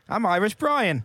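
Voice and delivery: badly faked Irish accent with a laugh. Shown as a demonstration. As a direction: draw it out in a joke Irish voice. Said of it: "can you do an Irish accent".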